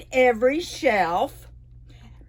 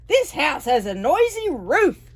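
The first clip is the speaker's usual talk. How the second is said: mild mock yell; 4 semitones higher, 5 dB louder than usual. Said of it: "yelled Owl".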